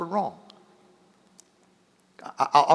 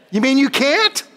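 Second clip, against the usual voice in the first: mock disbelief; 10 semitones higher, 3 dB louder than usual. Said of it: "Oh, you mean you can't?".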